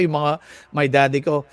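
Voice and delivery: normal talking voice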